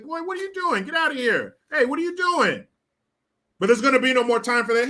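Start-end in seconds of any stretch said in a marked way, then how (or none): 0.0-2.7 put-on high, strained cop shouting at a kid; mock cop yelling. Cop yelling at the boy to get out, mock. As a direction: bark it like a startled cop.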